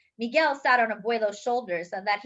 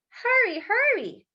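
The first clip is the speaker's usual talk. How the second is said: urgent hurry; 12 semitones higher, 3 dB louder than usual. A narrator's reading. Grandmother rushing to mass.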